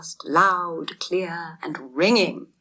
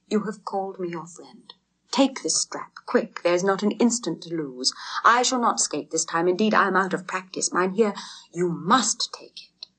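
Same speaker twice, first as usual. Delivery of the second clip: husky pleading. Acted. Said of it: "pleaded Hans in a husky voice".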